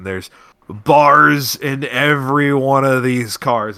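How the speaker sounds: loud tipsy heiress voice; sloppy, boozy announcement; drunk slurring. Acted. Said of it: "She's slurring a little bit".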